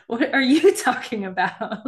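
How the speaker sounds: slow, laughing what are you talking about; mock confusion broken by a laugh; laughing disbelief. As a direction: play it amused and baffled. Baffled retort, laughing.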